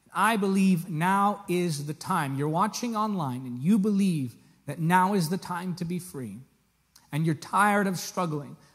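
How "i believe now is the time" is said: ordinary talk, nothing marked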